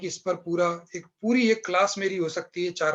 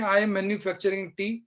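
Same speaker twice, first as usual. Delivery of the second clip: slow mocking example; slower than usual. Shown as a demonstration. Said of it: "क्या आप कह सकते हैं".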